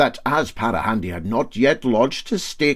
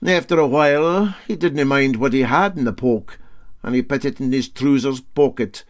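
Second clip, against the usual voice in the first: mild, matter-of-fact skipper telling the tale; cool Para Handy; 3 semitones higher, 4 dB louder than usual. Acted. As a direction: tell it coolly, unbothered. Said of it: "said Parahandy coolly".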